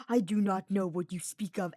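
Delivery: "I do not know what you speak of" mocked in a bad stiff mage voice; poor imitation. Sylvain mocking Hubert's denial with a bad imitation. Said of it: "the poor imitation of the mage's voice".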